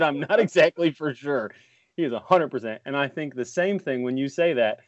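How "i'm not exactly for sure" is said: imitating Ref's hedge. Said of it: "is when he said".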